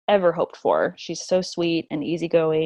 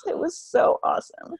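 breathless whisper, moved to tears; whispered awe; 11 semitones higher than usual. Real, not acted. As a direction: barely voice it, overcome. Emotional birth memory.

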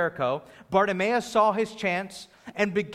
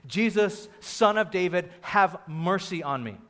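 drawn-out raised plea, falling at the end; half-strength imitation of a desperate call; held-back yell. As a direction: cry for mercy without truly yelling. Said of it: "yelled from the top of his lungs, and I won't do that".

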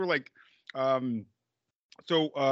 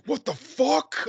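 mock shock; 11 semitones higher, much slower than usual. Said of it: "he's like".

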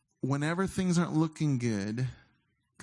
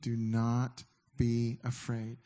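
slow, much softer reassurance; gentle comfort; 2 semitones lower, 3 dB quieter, slower than usual. Retold or imitated. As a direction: soothe a frightened child, slowly. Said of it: "he come in and say".

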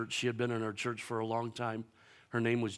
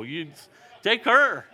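very high, loud demand; mock plea; 8 semitones higher, 10 dB louder, slower than usual. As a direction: fling it up to heaven. Pleading with God.

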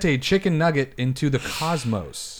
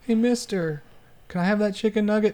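put-on hungry kid; 9 semitones higher than usual. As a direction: beg like a hungry little kid. Skit, hungry kid again.

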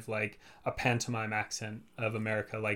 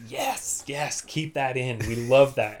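mock delight; 6 dB louder, slower than usual. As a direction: imitate thrilled casting people. Delighted casting team acted out.

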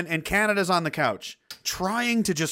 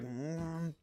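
quiet, irritated "mm"; agitated low-key hum; 15 dB quieter than usual. Acted. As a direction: grumble under your breath, annoyed by noise. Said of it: "getting visibly agitated by all the noise".

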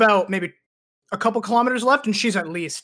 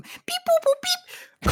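very high phone beeps; high-pitched electronic beeping; imitated dial tones; much slower than usual. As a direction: squeak out the keypad tones.

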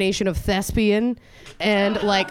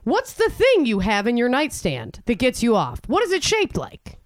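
high, exasperated challenge; comic cross-examination, pitched high; mock confrontation; 5 semitones higher than usual. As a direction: take Carol to task. Acted retort to Carol.

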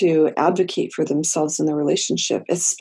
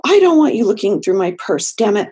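louder, firmer boundary with bite; with more teeth; 4 semitones higher, 6 dB louder than usual. Shown as a demonstration. Client asserting a boundary to the therapist, louder and firm. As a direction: put teeth into it, mean it. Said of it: "can we put a little bit more teeth into that".

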